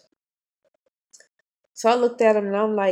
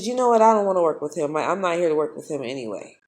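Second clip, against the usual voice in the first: angry retort; 6 dB louder, faster than usual. Retold or imitated. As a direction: tell her off, fed up. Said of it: "turned back around to her and said".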